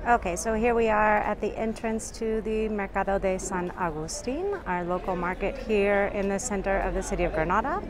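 speaking through a face mask, muffled. Real, not acted. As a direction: talk muffled behind a mask. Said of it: "if I sound muffled".

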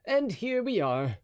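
musketeer voice. A narrator's reading. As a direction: draw it out cheerfully. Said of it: "D'Artagnan's line".

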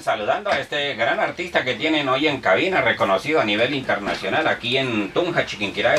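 lightly voiced small-town radio announcer; parody radio host. Comedian greeting the fake guest, mock radio host. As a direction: greet the listeners like a village DJ.

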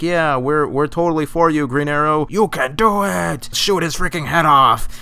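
mock cheering citizens. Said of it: "they're like".

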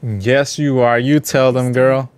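cheering. Real, not acted. Cheering on NPC's speech.

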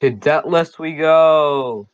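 slow, drawn-out heroic call; rally the party like a hero; heroic battle cry. Pretend. Battle cry heading to dungeon.

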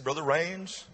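soft, halting, grief-laden voice; retold weeping father. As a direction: quietly imitate a man holding back tears. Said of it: "his lips was trembling and he was weeping".

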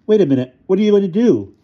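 high, loud, worried protest; alarmed outburst. A narrator's reading. Tycho fears for his yo-yo, alarmed and loud. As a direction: blurt it out in alarm. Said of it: "Tycho said quickly".

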